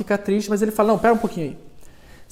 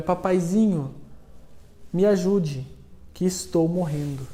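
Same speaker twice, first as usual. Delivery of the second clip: softer and softer, strength running out; weak dying plea; 6 dB quieter than usual. Acted. Pinocchio pleads with his papa while sinking, weak and faint. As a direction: fade away as if drowning.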